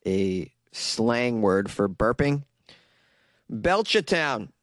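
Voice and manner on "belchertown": put-on Belchertown in a Boston accent, R dropped; thick Boston local saying the town's name. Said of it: "exercise my friggin' accent".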